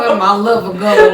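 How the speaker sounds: put-on laughing, old-time southern accent; mocking southern accent. Co-host teasing vlogger's impression, old-time southern accent. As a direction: mimic an eighteen-hundreds southerner. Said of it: "talk like you from eighteen hundred".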